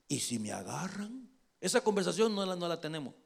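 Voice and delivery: soft, mock-timid question; hesitant hushed objection; timid worry. David objecting to God's order, timid worry. Imagined worried reply to God.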